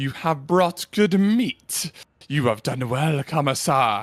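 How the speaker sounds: throaty, guttural, menacing beast voice. A narrator voices a creature addressing kamasa, in a guttural, menacing creature voice. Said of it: "guttural voice, fine, e- emanates with menace".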